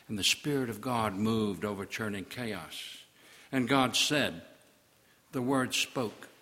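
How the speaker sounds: measured, solemn reading of Genesis; solemn Bible reading; scripture reading. Acted. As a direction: read it like holy writ. Reads Genesis in preaching style.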